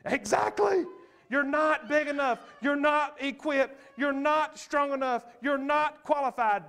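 booming high and loud, punching each not; voice of God. Acted. God answering fear's taunts, loud booming proclamation. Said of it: "God the whole time is saying".

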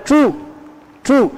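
"chu" with the apostrophe CH, tongue curled back; retroflex CH. Shown as a demonstration. Teacher showing the CH with apostrophe, retroflex sound. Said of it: "C H con un apóstrofo, suena".

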